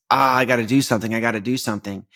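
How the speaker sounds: quick, fidgety, then fading; antsy restless. Retold or imitated. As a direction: sound itchy to move.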